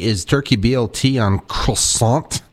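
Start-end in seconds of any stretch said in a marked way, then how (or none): 1.4-2.4 put-on croissant said the French way, slowed, in a joking French accent; mock French accent. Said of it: "That's my French accent".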